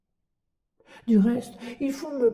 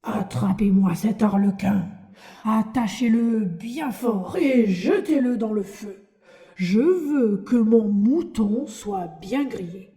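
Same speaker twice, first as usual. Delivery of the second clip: hoarse voice. Acted. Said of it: "d'une voix rauque".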